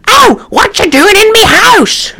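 high, hammed-up cockney; mock cockney accent. Mimicking the film's cat, hammed-up cockney accent. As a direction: squawk it like a bad London cat. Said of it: "Terrible accent for me".

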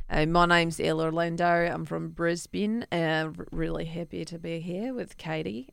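a light Australian accent. Shown as a demonstration. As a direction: say it like a Brisbane local. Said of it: "let's hear your accent".

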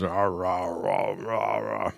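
talking with a mouth full. Real, not acted. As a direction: mouth full, chewing through words. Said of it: "my mouth is full of turkey".

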